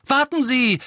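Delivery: high, loud shout; calling after someone. A narrator's reading. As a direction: call urgently to someone walking away. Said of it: "rief er Harry nach".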